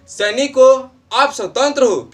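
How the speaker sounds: lifted, emphatic address to defeated soldiers; Jhansi Rani rallying. Acted. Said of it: "हारते हुए सैनिकों को हौसला बढ़ाने के लिए".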